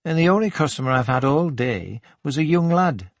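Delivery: lightly voiced Geordie lilt, pitched slightly up; chatty Geordie shop assistant. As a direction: invite him to tea with a hint of Geordie.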